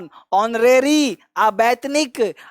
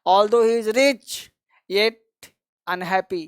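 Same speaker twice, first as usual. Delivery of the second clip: slow, word by word; slow dictation; much slower than usual. Shown as a demonstration. Teacher dictates a sentence slowly to students. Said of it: "फिर भी, है ना".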